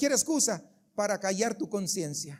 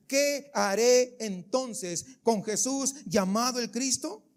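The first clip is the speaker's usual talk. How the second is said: Pilate asks; slower than usual. Acted. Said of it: "Pilato preguntó a la multitud".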